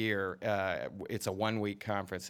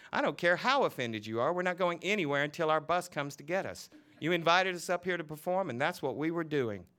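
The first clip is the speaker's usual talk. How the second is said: higher, indignant shouting; teacher shouting at the reverend in anger; angry shouting; 8 semitones higher than usual. Acted. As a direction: tell him off hard. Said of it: "shouting at Reverend Frederick".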